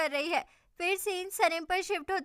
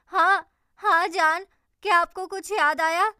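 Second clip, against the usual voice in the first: hopeful excited reply; eager; 7 dB louder than usual. Acted. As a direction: spin round hoping he remembers. She hopes he remembers.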